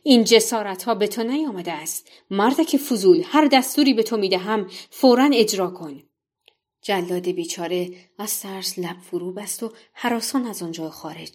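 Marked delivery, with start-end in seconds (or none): 0.0-6.0 king yells down at his servant, loud and furious; angry royal shout. Acted. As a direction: bellow the order like an enraged king. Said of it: "فریاد زد". (فریاد خشمگین شاه بر سر جلاد)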